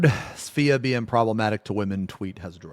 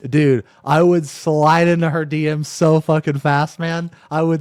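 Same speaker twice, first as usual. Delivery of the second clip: excited; 6 semitones higher, 6 dB louder than usual. Real, not acted. Hyped boast.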